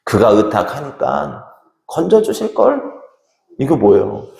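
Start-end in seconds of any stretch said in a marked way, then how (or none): 0.0-2.8 mild scoffing, pitched up on the last word; mocking. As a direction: jeer at a believer with a rising taunt. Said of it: "비웃으면서".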